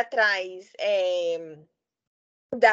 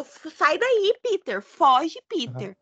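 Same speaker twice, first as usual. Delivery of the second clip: half-raised mock yell, pitched up; retold shout; 2 semitones higher, much slower than usual. Rap to Peter, telling him to flee, imitated shout. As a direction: imitate someone yelling a warning, not full volume. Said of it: "o Rap tá gritando".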